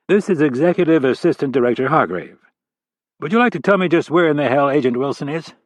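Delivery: a senior director grilling a junior agent; stern FBI boss. Acted. Angry FBI boss on the phone.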